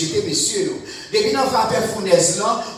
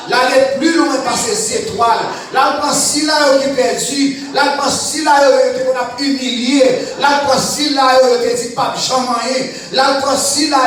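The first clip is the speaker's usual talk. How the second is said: louder and louder, each "Là, le si là" pushed harder; building preaching fervour; 3 semitones higher, 4 dB louder than usual. Real, not acted. Preacher stirring the congregation, in a loud, building chant. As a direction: whip the congregation up with every repeat.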